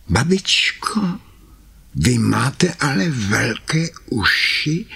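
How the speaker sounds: put-on high, breathy startled girl; frightened Karkulka. Karkulka noticing the big ears, high and frightened. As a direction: gasp it out, a little scared. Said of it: "zvolila polekaně".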